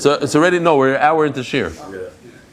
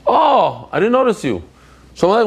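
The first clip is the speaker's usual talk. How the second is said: higher-pitched, surprised oh; real surprise, pitched up; surprised greeting; 6 semitones higher than usual. Real, not acted. Rabbi spots an unnoticed guest in class, surprised.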